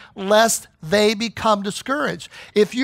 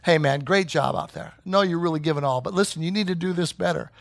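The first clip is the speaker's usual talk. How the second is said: gentle encouragement; 4 semitones lower, 4 dB quieter than usual. Retold or imitated. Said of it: "put your arm around 'em".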